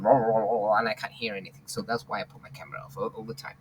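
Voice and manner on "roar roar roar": imitated roaring audio garble; garbled voice noise. Teacher explaining why the camera is off, imitated garble. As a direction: mimic a voice breaking up into roar-roar noise. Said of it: "the voice just goes".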